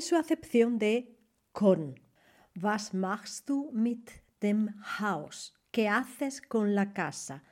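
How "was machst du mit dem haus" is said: slow, careful German question; slow model question. Shown as a demonstration. Teacher modelling German question slowly for students. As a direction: lay it out slowly for learners.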